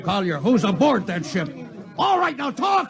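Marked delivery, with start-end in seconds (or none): 2.0-2.9 shouted order, much higher; angry shout. Acted. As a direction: demand it, furious. Captain interrogates a spy.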